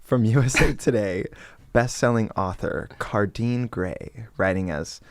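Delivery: sexy reading voice. Pretend. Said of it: "do it very sexy".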